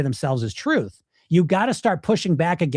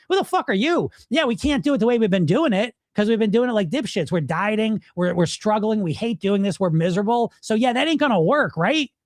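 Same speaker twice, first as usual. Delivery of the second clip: high-pitched, combative retort; indignant push back, pitched up; sarcastic comeback; 5 semitones higher than usual. Acted. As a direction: argue back at the inner critic with sarcasm. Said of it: "turn into a sarcastic good voice".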